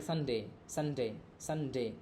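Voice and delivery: "संडे" with सं easy, डे pressed; stress on second syllable. Shown as a demonstration. Teacher showing which syllable is stressed, weight on डे in "संडे". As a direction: lean on the डे of "संडे". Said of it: "डे को थोड़ा जोर लगा करके बोलते हैं".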